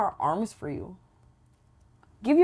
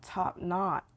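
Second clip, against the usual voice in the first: whisper; 6 dB quieter than usual. Real, not acted. Whispered correction.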